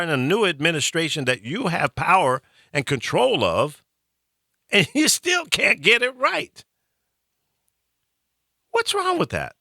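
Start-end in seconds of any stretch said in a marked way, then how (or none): 4.7-9.5 breaks into a laugh mid-complaint; laughing in disbelief. Real, not acted. Host laughing at Congress for failing again. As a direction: laugh at how they still can't get it right.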